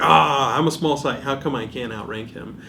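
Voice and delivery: ordinary talk, nothing marked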